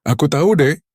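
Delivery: high, loud cracking plea; voice breaking. A narrator's reading. Husband admitting to wife, voice breaking. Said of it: "suaranya pecah".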